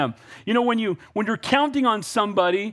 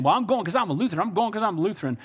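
Texas grandpa; 3 semitones higher, faster than usual. Retold or imitated. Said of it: "Grandpa Andre kept saying".

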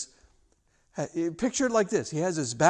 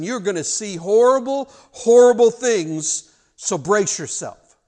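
acted warning, building louder and higher; grave warning; 3 semitones higher, 6 dB louder than usual. Jesus warning the disciples of what is coming, urgent and emphatic.

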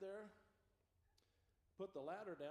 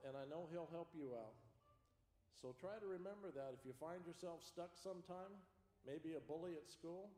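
put-on gentle, lower lesson voice for children; kindergarten teacher voice; 4 semitones lower than usual.

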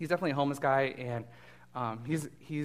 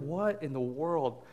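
freaked out. Retold or imitated. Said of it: "He's totally like".

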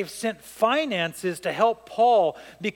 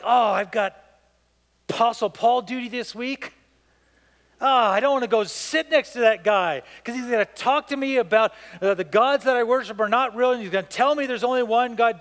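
higher-pitched grumbling soldier, lightly acted; mock reluctant complaint; 4 semitones higher, 3 dB louder than usual. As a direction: act out dreading this week's duty. Acting out a reluctant guard.

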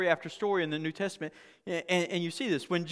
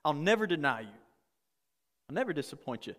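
Peter bragging. Retold or imitated. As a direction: play the loyal braggart making big promises. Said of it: "he's bragging like".

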